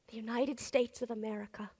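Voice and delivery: quiet first take; hushed, reverent. Acted. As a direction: say the name quietly like a memory. The name the soldiers knew.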